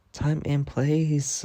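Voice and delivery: slow, drawn-out, stern; slow disapproving scold. Retold or imitated. To Nora with kids around, a slow stern scold. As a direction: slowly remind her where she is.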